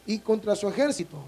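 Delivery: slow, weighty Bible reading; solemn scripture reading. Acted. Pastor reading Revelation to the congregation, slow and solemn. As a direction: read each phrase slow and grave. Reads Revelation aloud slowly.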